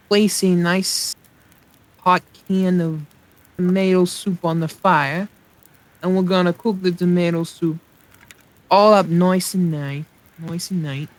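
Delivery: a bad Brooklyn cook describing soup; crappy Brooklyn accent. Streamer cooking soup in-game, in a bad Brooklyn accent. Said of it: "crappy Brooklyn to, like, a, a crappy accent".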